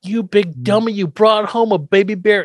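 lightly voiced cranky grandpa; relishing the bad line; quoting Grandpa. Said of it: "But Grandpa goes".

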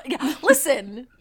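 put-on loud, drawn-out Chicago accent. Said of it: "did kinda do a Chicago accent".

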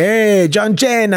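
slow, high fan imitation of Cena said the Santino way; a fan doing his John Cena line; fans imitating. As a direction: fan greeting him in his character voice. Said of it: "they'll say".

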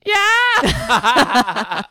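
high laughing yell; excited shout. Retold or imitated. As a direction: whoop it out, laughing. Mock sassy cheer at comedy show.

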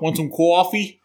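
high mock British offer of coffee; posh British accent. Friend teasing with an offer, in a mock posh British accent. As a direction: pipe it like a prim Brit. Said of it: "talk like this".

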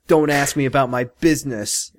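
a hint of a New York accent; light New York mobster accent; mild New York tough-guy accent. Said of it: "in a New York accent".

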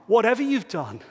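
exultant preaching. Real, not acted. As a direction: burst out with amazement at grace. Preacher exclaiming grace.

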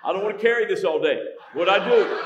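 high, loud, frantic pleading; pleading husband. Retold or imitated. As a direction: beg your wife to say what you did. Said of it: "I'll go".

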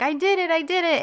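put-on quick, high, giddy little girl's cheer; girl cheering herself after tying her shoes, excited. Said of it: "she gets all excited".

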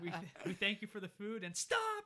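loud, high mock grace breaking into a yell; struggling to keep it together. Boy saying grace before his mother, barely keeping it together. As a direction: stammer through grace, then burst out. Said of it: "he's trying to keep it together".

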